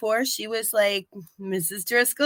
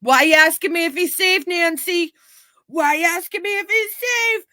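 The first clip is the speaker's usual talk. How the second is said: mock-defensive, higher and louder; indignant pushback, pitched up; 7 semitones higher, 5 dB louder than usual. Jonathan snapping back at Nancy, higher and louder. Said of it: "And Jonathan's like".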